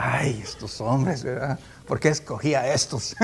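slow, lightly voiced sigh of exasperation; half-joking weary groan over his disciples; mock exasperated Jesus. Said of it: "me imagino a Jesús". (Jesús exasperado en broma, lento)

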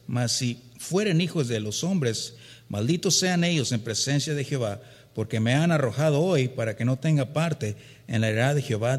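preacher reading scripture aloud with force. Acted. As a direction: proclaim the verse to the congregation.

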